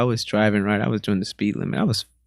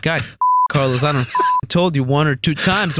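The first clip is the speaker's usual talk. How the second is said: raised-pitch mock telling-off; mom scolding imitation; 5 semitones higher than usual. Mom starting in English on son, mock angry scolding. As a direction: scold like an exasperated mother. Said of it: "she starts yelling at you".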